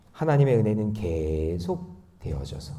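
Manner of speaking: usual speaking voice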